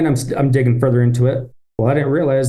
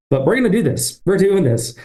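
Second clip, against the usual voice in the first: determined pep talk; 6 semitones higher than usual. Retold or imitated. Resolving to push on.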